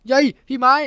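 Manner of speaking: high, loud startled yelp. A narrator's reading. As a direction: yelp the name as if grabbed from behind. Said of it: "ทำเสียงตกใจนิดหน่อย".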